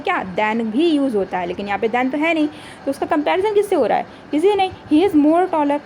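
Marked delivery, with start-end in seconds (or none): 4.7-5.8 slow, careful reading of the wrong form; wrong sentence read slowly. Shown as a demonstration. Teacher reading the faulty sentence aloud to her class, slowly. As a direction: spell out the error word by word. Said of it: "लेकिन उसके साथ में कोई than भी तो होना चाहिए था".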